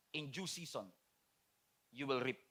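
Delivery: low, soft verse read; hushed scripture. Shown as a demonstration. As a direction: pastor quietly closing with a Bible promise. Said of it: "Ang sabi nga ng Galatians six".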